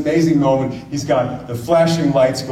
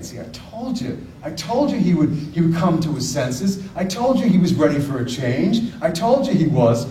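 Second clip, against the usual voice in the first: triumphant told-you-so; 4 semitones higher than usual. Retold or imitated. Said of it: "looking at his dad and saying".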